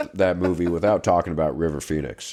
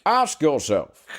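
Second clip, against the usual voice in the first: slow, higher, exaggerated British accent; 6 semitones higher, slower than usual. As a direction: ham up a stage British villain. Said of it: "hardcore, like, British accent".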